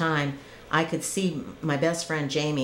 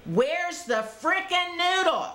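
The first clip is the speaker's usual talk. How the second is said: much higher, slow strained furious cry; screaming at God; 14 semitones higher than usual. Retold or imitated. Drowning woman demanding the pool noodle from God, high strained yell. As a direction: wail it out at the sky. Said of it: "I'm screaming to God".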